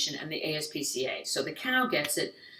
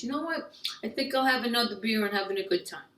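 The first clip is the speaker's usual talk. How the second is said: carefree guy; 4 semitones higher, faster than usual. Retold or imitated. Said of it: "all he's thinking is".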